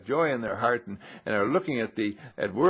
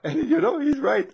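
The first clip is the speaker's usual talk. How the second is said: laughing aside; 13 semitones higher, 5 dB louder than usual. Real, not acted. Laughing after quote.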